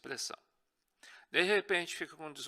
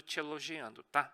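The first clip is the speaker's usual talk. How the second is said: normal talking voice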